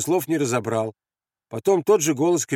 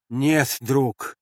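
relieved. Acted. Andres answering the grenade thrower, relieved. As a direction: let the tension go. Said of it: "с облегчением сказал Андрес".

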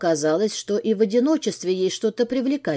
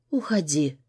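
weary and quiet; tired; 5 semitones lower, 4 dB quieter than usual. Acted. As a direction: say it worn out, no fight left. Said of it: "говорю устало".

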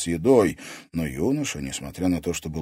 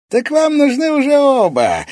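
laughing; 12 dB louder than usual. A narrator's reading. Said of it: "рассмеялся барон".

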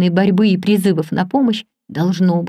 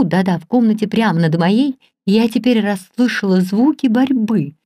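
usual speaking voice

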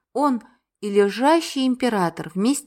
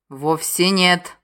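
patient; slower than usual. Acted. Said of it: "терпеливо ответил Тарх".

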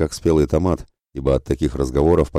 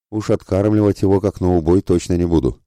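ringing laugh; 5 semitones higher than usual. A narrator's reading. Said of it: "заливисто рассмеялась Верея".

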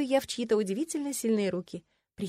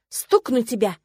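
frank; 3 semitones higher, 8 dB louder, slower than usual. A narrator's reading. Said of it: "совершенно честно заявила я".

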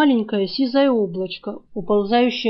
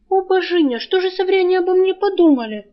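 high, pained moan of shame; a raised, groaning lament; 8 semitones higher, 4 dB louder than usual. Acted. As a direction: wail it out, mortified. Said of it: "простонала она".

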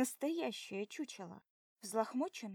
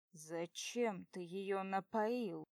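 angry; 2 semitones lower, much slower than usual. Acted. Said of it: "набрасывается он".

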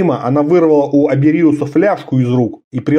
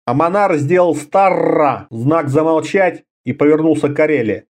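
ordinary delivery

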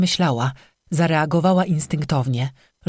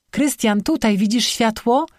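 raised voice calling into the dark; 6 semitones higher than usual. Acted. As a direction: call out to a friend lost in the woods.

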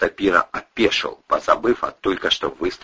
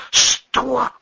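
shocked woman. A narrator's reading. Кристина в шоке.

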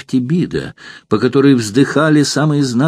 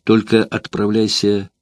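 halting, broken orders, slowing; faltering voice. Acted. Courtesan sending Metrobius to spy, voice faltering. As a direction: push the commands out haltingly. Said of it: "прерывающимся голосом".

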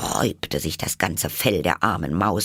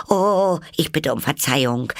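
high, alarmed little apology; startled apology; 9 semitones higher, 4 dB louder than usual. A narrator's reading. Alice fears she hurt the mouse, startled apology. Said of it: "sagte Alice schnell, erschrocken".

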